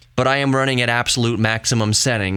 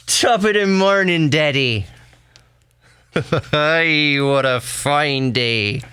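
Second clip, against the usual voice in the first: put-on stereotypical Irish accent; 3 semitones higher, slower than usual. Amused dad voices his newborn as an Irishman, caricature Irish accent. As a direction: greet brightly in cartoon Irish, giggling midway. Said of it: "he would come out a little Irishman, a little stereotypical".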